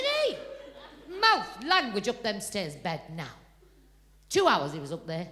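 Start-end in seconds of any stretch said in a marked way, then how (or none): 0.0-3.3 mock-stern parent; telling off. Telling off the child.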